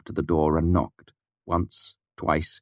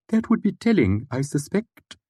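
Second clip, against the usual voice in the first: a touch of reproach; 11 semitones higher than usual. Acted. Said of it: "he said with a touch of reproach".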